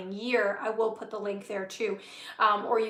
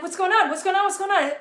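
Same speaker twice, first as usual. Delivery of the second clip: raised, pressed, asking over and over in disbelief; a stuck person wondering why nothing works, mildly exasperated; baffled exasperation; 7 semitones higher, 5 dB louder, faster than usual. Retold or imitated. Feeling blocked, baffled at own life.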